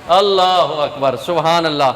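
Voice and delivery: loud, slow, drawn-out praise; loud exclamation of praise. Real, not acted. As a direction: call out praise to the congregation. Calling praise to crowd. (بلند آواز میں تسبیح)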